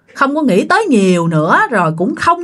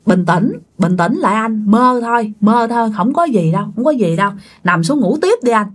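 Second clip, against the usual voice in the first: soothing. Retold or imitated. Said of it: "vuốt vuốt ba vậy nè".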